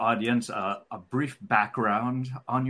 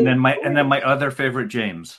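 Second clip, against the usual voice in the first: playful teasing; 3 semitones higher, 7 dB louder, faster than usual. Real, not acted. Host teasing guest.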